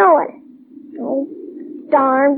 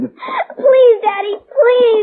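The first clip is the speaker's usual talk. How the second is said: slow, tearful begging; crying plea; much slower than usual. Acted. Daughter begs her father to come back, crying. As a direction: beg him through tears.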